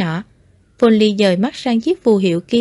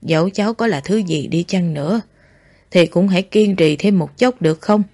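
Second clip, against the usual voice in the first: slightly acted, lower-pitched pleading elder; lightly voiced old man; 4 semitones lower than usual. Old Foley urges the boy to hold on, low pleading.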